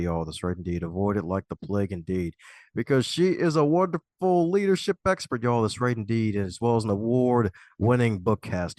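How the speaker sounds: revved-up announcer read, punchy and theatrical; podcast host hyping the guest, big announcer energy; hype host intro. Acted. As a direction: sell the guest like a game-show host. Host's hyped intro with catchphrases.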